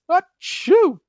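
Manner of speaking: big sneeze then high wailing complaint; lion sneezing and roaring. Acted. Sick lion sneezes and complains to the doctors. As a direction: sneeze hard, then moan about the flu. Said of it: "the lion roared".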